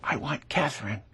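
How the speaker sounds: soft, hushed little plea from a rose; a rose quietly asks for Catherine, softly. Pretend. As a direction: murmur it like a shy flower. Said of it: "and very quietly says".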